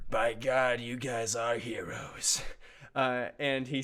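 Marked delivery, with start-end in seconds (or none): 0.1-2.4 slow, low proud commander, lightly voiced; a hint of a gruff general saluting. Cerebrum salutes his heroes, slow and proud.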